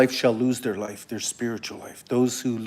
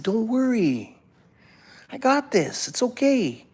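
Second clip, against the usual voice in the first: reassurance; 10 semitones higher than usual. Retold or imitated. Reassuring pleading friends in retold dream.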